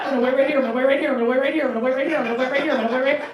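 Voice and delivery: high, loud repeated eager promise; a dog waiting by the door. Retold or imitated. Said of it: "We're like".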